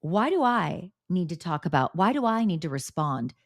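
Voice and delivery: a hint of Dolores's accent; imitated Dolores accent. Dolores dismissing Kelly Dodd's talk, lightly imitated accent. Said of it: "Dolores's response was very Dolores".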